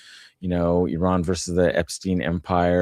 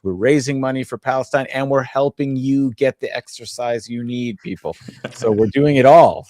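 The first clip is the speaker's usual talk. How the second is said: excited; 4 semitones higher, 3 dB louder than usual. Real, not acted. Excited wrap-up pitch.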